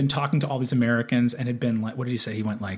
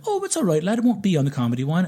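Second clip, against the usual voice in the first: put-on light Irish old man voice; 4 semitones higher, faster than usual. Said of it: "And he's like".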